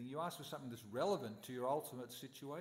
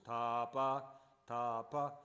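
loud, slow divine call from nowhere; mysterious voice; 2 semitones lower, 6 dB louder, much slower than usual. Acted. The unseen Lord calling down to Brahma, loud and solemn. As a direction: let it ring out like a voice from the sky. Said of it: "this voice".

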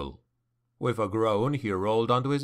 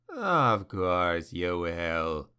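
very slow, lower, amused demon; knowing demon chuckle; 5 semitones lower, much slower than usual. A narrator's reading. Demon answering Malus's defiance, slow amused chuckle. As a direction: savour every word like a secret. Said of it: "the demon chuckled knowingly".

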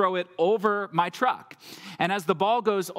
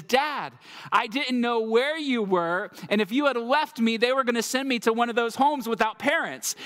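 distraught son; 5 semitones higher than usual. Retold or imitated. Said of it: "he says".

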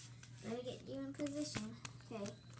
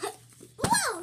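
surprised whoa; 10 dB louder than usual. Real, not acted. Gymnastics flip goes wrong.

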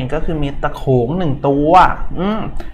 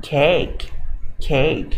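American accent. Shown as a demonstration. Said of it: "สำเนียงแบบอเมริกัน".

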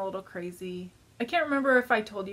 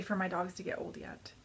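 whispered, sad and close to tears; 8 dB quieter than usual. Real, not acted. Vlogger whispering to viewers about her aging dog, sad whisper. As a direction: breathe it out sadly under her voice.

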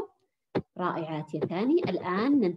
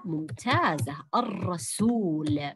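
slow model; 4 semitones lower, much slower than usual. Shown as a demonstration. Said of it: "teacher models slow word".

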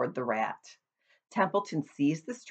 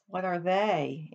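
sadly; 3 semitones higher, slower than usual. Acted. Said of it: "asked Wilbur sadly".

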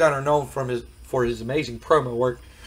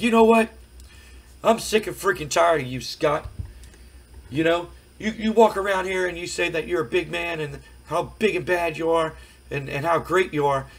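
fed-up Marc Mero; 4 semitones higher than usual. Retold or imitated. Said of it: "And Marc Mero's like".

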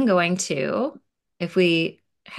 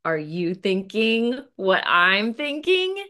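conspiratorial; slower than usual. Acted. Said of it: "Charlie and Lucy say together".

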